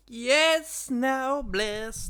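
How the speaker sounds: excited. Real, not acted. Excited greeting on stream.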